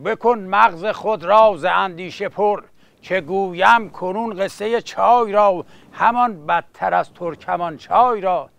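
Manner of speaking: rhythmic epic verse recital; epic teahouse storyteller. Acted. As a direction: chant it like a coffeehouse bard.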